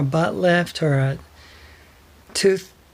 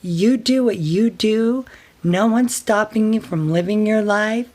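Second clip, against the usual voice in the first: imitating angry sister; 4 semitones higher than usual. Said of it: "the phone's getting a little hot".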